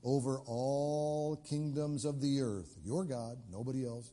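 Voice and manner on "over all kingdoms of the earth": slow prayer reading. Acted. Prayer read.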